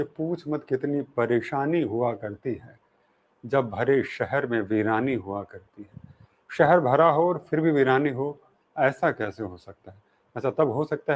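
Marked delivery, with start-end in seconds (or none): 0.0-6.1 slow, measured verse recitation; couplet recitation. Retold or imitated. Host opens the show with a poet's couplet, slow recitation. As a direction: recite the couplet slowly, unhurried. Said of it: "का एक शेर फरमाते हैं".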